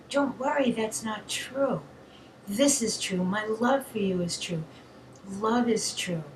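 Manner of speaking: soft, lightly soothing reassurance; calm a child woken from a nightmare; mild tender parent voice; comforting a child. Shown as a demonstration. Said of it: "like you would to a child".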